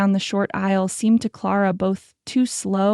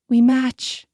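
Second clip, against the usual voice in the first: higher, louder, bright with joy; happy; 4 semitones higher, 4 dB louder than usual. A narrator's reading. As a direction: say it delighted. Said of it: "she said happily".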